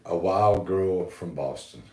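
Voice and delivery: put-on slow, heavy Boston accent. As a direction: drawl it like a Bostonite. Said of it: "give us a Bostonite".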